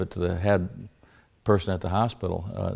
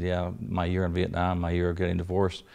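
sarcastic; 5 dB louder than usual. Retold or imitated. Sarcastic reply to Gary's idea.

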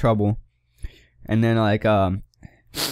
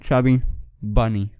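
mouth full. Real, not acted. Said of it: "it's the second one".

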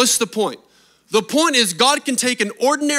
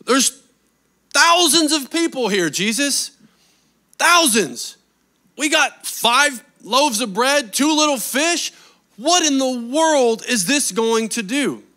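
raised, disbelieving plea; exasperated disciple; 4 semitones higher than usual. Retold or imitated. Disciple protesting to Jesus about the huge crowd, raised exasperated voice. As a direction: protest like a worried disciple who sees only the shortfall. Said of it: "He's saying".

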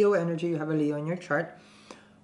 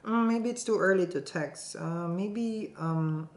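hesitant, trailing maybe; wishy-washy hesitation; slower than usual. Retold or imitated. Mocking a hesitant partner, wishy-washy hedging. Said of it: "That's wishy-washy".

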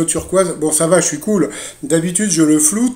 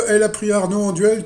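usual speaking voice

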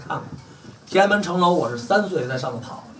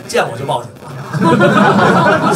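1 mocking laugh; 6 semitones higher, 5 dB louder, much slower than usual. Real, not acted. Mocking rival's threat.

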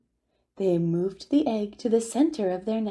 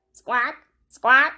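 penguin squawk; 3 semitones higher, 6 dB louder than usual. Acted. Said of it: "Roy and Silo called back".

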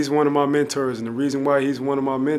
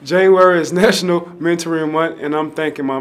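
laughing through it; 4 semitones higher, 7 dB louder than usual. Real, not acted. Laughing off emotion at the close.

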